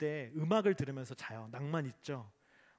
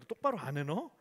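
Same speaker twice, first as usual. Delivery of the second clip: a sergeant's mock scolding, a little louder; 4 semitones higher, 6 dB louder than usual. Sergeant yelling at his juniors, mock angry scolding. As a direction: bark at the junior soldiers, half in jest. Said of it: "막, 막, 막 혼내는 거예요".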